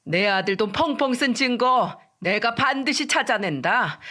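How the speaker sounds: slow, teeth-clenched threat from the mother-in-law; a vow of revenge, slow and clenched; through gritted teeth. Retold or imitated. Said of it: "이를 악물고 말했어요".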